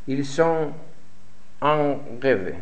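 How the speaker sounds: ordinary talk, nothing marked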